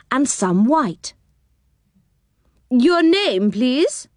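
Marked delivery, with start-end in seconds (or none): 2.7-4.1 high-pitched little woman voice; funny little woman. A narrator's reading. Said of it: "asked the funny little woman there".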